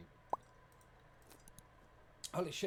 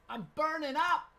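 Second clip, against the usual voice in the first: high, slow overheated wail; mock dramatic Kelly; 10 semitones higher, 7 dB louder, slower than usual. Reading Kelly's post aloud, in a high slow wail. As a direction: wail it like she's melting.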